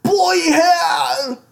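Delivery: high, loud, drawn-out British yell; mock British outburst, stretched out; trashy British accent. Shown as a demonstration. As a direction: squawk it in a silly British accent. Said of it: "a trashy British accent is the funniest".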